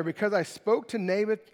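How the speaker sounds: a touch of whine, sulking king; sulky hint of a whining king; whiny Ahab. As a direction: lightly whine it like a pouting king. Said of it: "Do you hear that in a whiny voice?".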